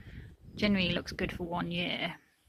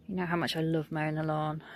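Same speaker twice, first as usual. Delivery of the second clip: sarcastic; 2 semitones lower than usual. Real, not acted. Gardener to viewers about mowing, sarcastic. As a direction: say it as if you mean the opposite. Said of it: "I'm being sarcastic".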